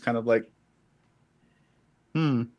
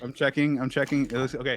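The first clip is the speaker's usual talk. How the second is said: thin voice no bass; 5 dB quieter than usual. Real, not acted.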